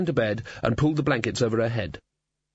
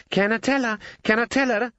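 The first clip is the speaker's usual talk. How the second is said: high, excited bird squawk, said twice; squawking raven; 11 semitones higher than usual. A narrator's reading. The Raven begging eagerly to tell Susan, a high squawk. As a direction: hop about and squawk it. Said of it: "it squawked".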